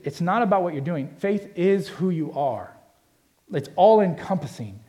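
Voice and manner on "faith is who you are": "is" drawn out as the key word; stress on IS. Shown as a demonstration. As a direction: lean slowly on "is". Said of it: "highlight and circle the word is".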